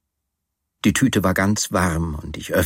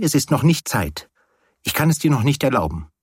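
higher-pitched, hurried refusal; teasing refusal; 5 semitones higher than usual. Acted. Woman telling her companion it is not time yet, refusing. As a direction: put him off in a raised pitch. She forbids him to look round.

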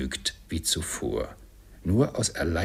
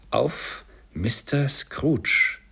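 higher, slow toast call; 6 semitones higher, 3 dB louder, much slower than usual. Acted. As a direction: raise the glass and call it out high. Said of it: "rief Bob".

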